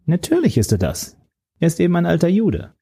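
high, mocking young villain voice; sneering young man. The young villain sneers about the old man, high and mocking. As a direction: lift the voice high and let him jeer.

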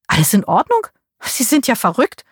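put-on a touch of an old woman yelling up; mild scolding shout. A narrator's reading. Aunt shouts up at her niece, mildly outraged. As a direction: scold up at the window. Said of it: "schrie sie zu mir hinauf".

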